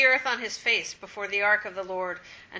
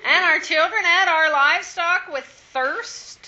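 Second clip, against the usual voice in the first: laughing while reading; 4 semitones higher, 6 dB louder than usual. Real, not acted. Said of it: "laugh heard while reading".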